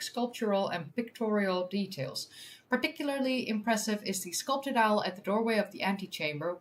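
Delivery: measured news-article reading; article read-aloud. Real, not acted. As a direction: read it out clearly for an audience.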